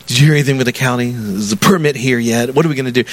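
quick-fire mock nagging questions; impatient pestering. Pastor bugging Pat every day about the county permit, impatient.

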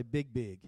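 "Big, big" with the doubled word as emphasis; word said twice. Shown as a demonstration. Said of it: "they'll say a word twice".

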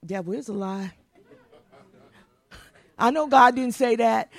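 low start then a loud rebuke; mock rebuke. Believer rebuking the devil, building to a shout. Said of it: "You go".

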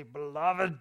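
brief, loud attempt at a preacher's address; half-successful imitation of a gravel-voiced pastor; R C Sproul. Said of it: "in his gravelly voice".

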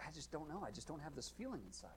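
softly acted uncertainty; doubtful admission. Doubter answering a friend's question, soft and hesitant. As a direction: say it small and unsure.

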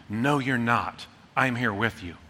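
soft, low reassurance; gentle reassurance; reassuring. Pretend. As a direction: comfort someone alone. Comforting voice of touch.

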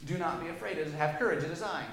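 a hint of calm reassurance; reassuring. Preacher voicing Jesus calming the scared disciples, gently. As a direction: soothe them lightly, no push. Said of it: "He reassures them".

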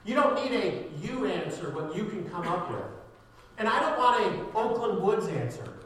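punchy preaching, key words hit loud; emphatic preaching. Real, not acted. Preacher telling church he wants God's future, emphatic. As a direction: preach it with forceful bursts.

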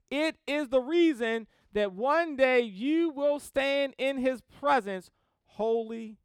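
impassioned, emphatic sermon delivery; preaching. Real, not acted. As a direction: drive each point home from the pulpit. Preaches with building force.

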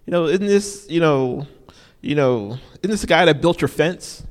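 mock-amazed neighbours gossiping; lightly voiced puzzled crowd; surprised townsfolk. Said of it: "they're like".

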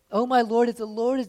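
loud, high, pleading protest; anguished loud complaint. Acted. Gideon crying out loudly at the Lord. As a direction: cry it out to heaven like a wronged man.

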